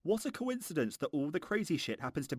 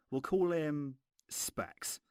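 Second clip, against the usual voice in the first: slow hushed whisper; 2 semitones higher, much slower than usual. Real, not acted. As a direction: whisper it as an aside. Naming a character, slowed aside.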